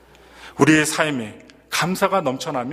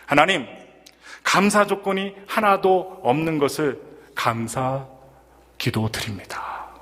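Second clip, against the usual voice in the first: grumbling prayer; slower than usual. Retold or imitated. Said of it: "푸념하듯이 이렇게".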